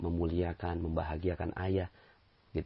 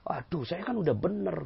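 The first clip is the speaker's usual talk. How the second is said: whiny complaint; 11 semitones higher than usual. Retold or imitated. Employee complaining about the boss.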